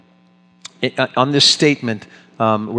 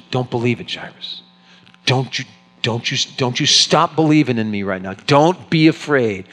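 urgent reassurance. Acted. Jesus urging Jairus.

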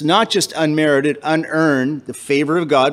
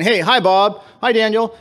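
higher-pitched breezy hello; casual greeting; 6 semitones higher than usual. Acted. Friend greeting Bob and Daniel in passing, casual. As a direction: toss off an everyday greeting.

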